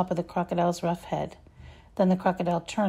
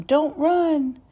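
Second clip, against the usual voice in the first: higher, louder plea to stop; yelling; 8 semitones higher, 4 dB louder than usual. A narrator's reading. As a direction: chase them while calling out.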